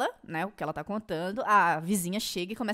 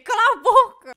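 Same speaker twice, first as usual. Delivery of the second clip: loud, high, laughing shout; shocked but amused outburst; laughing protest; 12 semitones higher, 12 dB louder than usual. Real, not acted. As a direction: yell it through laughter. Laughing protest at cruel joke.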